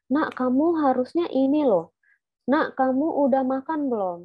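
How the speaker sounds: slow and simple. Shown as a demonstration. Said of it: "harus pelan-pelan kayak".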